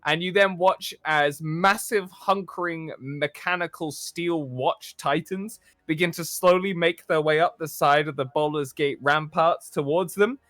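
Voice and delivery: measured cinematic narration; game master's scene setting. A narrator's reading. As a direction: paint the scene for the players.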